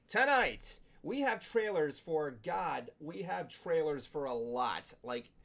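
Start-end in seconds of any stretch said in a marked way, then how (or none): 0.1-2.3 loud, drawn-out announcer hype; hyped host. Acted. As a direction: build up the lineup. Show host hyping segment.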